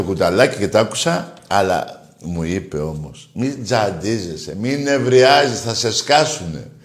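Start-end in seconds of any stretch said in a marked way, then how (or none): 3.3-6.7 slow fatherly advice. Retold or imitated. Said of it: "αν το λέει αυτή η φωνή".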